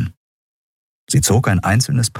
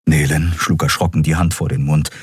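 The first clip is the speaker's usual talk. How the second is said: ordinary talk, nothing marked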